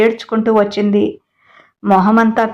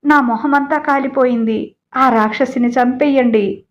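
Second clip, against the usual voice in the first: crying complaint; 3 semitones higher than usual. Acted. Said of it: "అని ఏడుస్తోంది".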